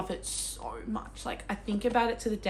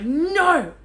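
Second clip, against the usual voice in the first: loud, high, drawn-out cry of "no"; dramatic mock wail of protest; retold outcry; 8 semitones higher, 10 dB louder than usual. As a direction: act out a horrified reader's yell. Acts out reaction to the book.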